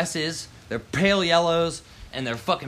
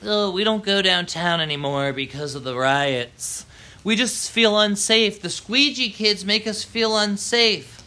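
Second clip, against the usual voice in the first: a hint of a whiny, fearful complainer, higher and slower at the end; mock the people who call in to radio, drawn out; mocking scared suburbanite; 4 semitones higher, 3 dB louder than usual. Rider mocks suburbanites who complain about riots, lightly whiny voice. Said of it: "talking about".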